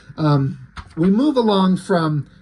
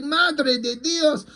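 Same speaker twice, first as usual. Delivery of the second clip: slow, much higher, mock aghast; slow, higher mock-horrified Spanish exclamation; shocked Spanish; 9 semitones higher, much slower than usual. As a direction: gasp it out in horror. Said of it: "He's like".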